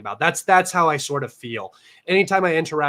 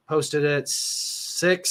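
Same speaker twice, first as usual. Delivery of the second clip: slow, drawn out; much slower than usual. Real, not acted. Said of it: "let me look at my time".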